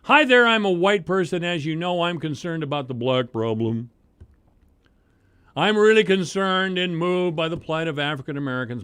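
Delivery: sarcastic parody of a virtue-signaling donor; mock do-gooder white liberal. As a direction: ham up a preening, well-meaning liberal. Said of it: "who want to look good doing something".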